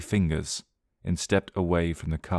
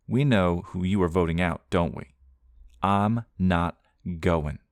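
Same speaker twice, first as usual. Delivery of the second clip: defiant. Acted. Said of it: "Beth spoke up defiantly".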